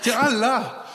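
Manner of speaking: mock eager listing. Listing gods, laughing, escalating. (ivrigt uppräknande, allt högre)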